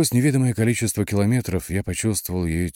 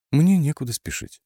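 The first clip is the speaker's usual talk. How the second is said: gentle, high-pitched female character voice; soft reply; 10 semitones higher, 5 dB louder than usual. A narrator's reading. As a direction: answer softly, lifted in pitch. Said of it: "мягко ответила она". (мягкий ответ высоким голосом)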